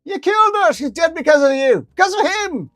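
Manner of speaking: very high, loud furious shout; screaming ferret. Acted. Ferret accusing interviewer of killing owner, furious scream. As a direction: scream the blame at her. Ferret held back by guards.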